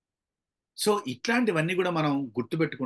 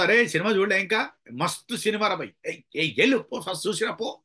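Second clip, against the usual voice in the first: high, scolding street banter; playfully heated, raised pitch; mock anger; 5 semitones higher than usual. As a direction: act out an irritated friend ordering someone off. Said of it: "ఎవడైనా కోపంతో".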